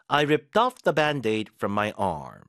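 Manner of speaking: very slow, word by word, "off" stressed; slow model sentence. Shown as a demonstration. Teacher reading the band-aid example slowly. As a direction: read it slowly for learners to copy. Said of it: "반창고를 떼어냈다 해볼까요".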